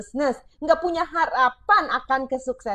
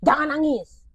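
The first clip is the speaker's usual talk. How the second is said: dismissive parent. Shown as a demonstration.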